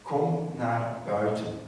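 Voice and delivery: Jesus calling Lazarus out, slow and loud. Acted. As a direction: draw out each word as a command. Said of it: "roept hij".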